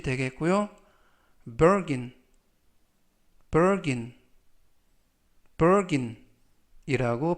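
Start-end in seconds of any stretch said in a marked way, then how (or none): 1.6-6.2 firm, careful pronunciation of "bargain"; slow model reading. Shown as a demonstration. Teacher modelling a word for learners, slow and firm. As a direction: say "bargain" slowly and firmly, as a model. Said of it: "천천히 세 번씩 읽어드리고요".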